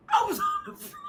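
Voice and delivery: squeaky high laughter through the words; laughing hard. Real, not acted. Recalling the funeral giggles, cracking up while telling it.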